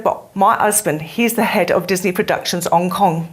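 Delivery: lightly imitated Cockney; a touch of mimicked London Cockney; Cockney accent. Student tells teacher of her husband's job, imitated Cockney accent. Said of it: "in her Cockney accent".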